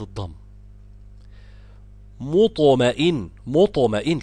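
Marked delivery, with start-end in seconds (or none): 2.2-4.2 careful مطمئن, the ط released with an echo; qalqala demonstration. Shown as a demonstration. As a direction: recite مطمئن with a bouncing emphatic ط. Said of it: "الطاء فيها مقلقلة مفخمة ساكنة".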